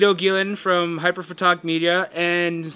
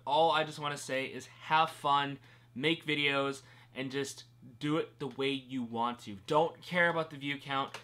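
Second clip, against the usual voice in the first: softer, shivering voice while freezing cold; 3 semitones lower, 9 dB quieter than usual. Real, not acted. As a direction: talk through the chill, shivering after icy water. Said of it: "I'm freezing".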